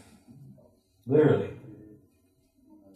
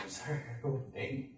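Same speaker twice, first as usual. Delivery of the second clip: hurried apology; 14 dB quieter, much faster than usual. Retold or imitated. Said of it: "I'm like".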